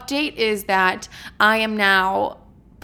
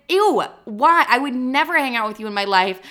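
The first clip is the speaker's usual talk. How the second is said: higher, louder mock disgust; 4 semitones higher, 4 dB louder than usual. Rejecting her assaulter's friend, in mock disgust. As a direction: recoil with a mocking ew. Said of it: "And I'd be like".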